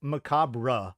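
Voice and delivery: "macabre" slowly, ending in a full "bruh"; over-sounded R. Shown as a demonstration. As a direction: spell out the R in "macabre": muh-KAHB-ruh. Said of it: "because it's not, like".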